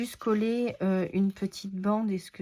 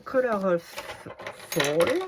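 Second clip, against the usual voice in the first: English title said with a French Norman accent; 3 dB louder than usual. Real, not acted. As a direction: read "Color of Fall" the French way, Norman-style. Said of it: "Désolée pour mon accent super, super normand".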